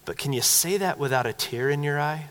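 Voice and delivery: lightly imitated Scottish accent; soft, gentle rebuke with a Scottish lilt; Alistair Begg. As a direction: quietly imitate a Scottish preacher's challenge. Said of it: "he, in that Scottish accent".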